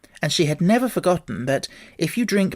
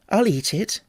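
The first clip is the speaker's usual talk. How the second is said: determined Alice; 5 semitones higher than usual. Acted. Alice voiced by reader.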